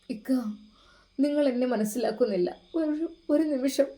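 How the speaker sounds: mild tearful plea; sobbing softly. Acted. Wife tearfully pleads with her husband, understated sob. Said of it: "അവൾ വിതുമ്പിക്കൊണ്ട് പറഞ്ഞു".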